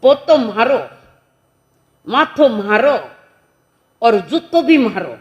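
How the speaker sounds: mock indignant grandfather, emphatic; defiant retort. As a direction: throw each phrase out as a challenge.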